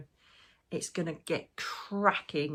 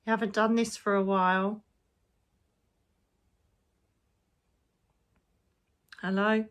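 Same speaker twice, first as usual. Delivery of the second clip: crone voice; 3 semitones higher than usual. Acted. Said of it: "That was her crone voice".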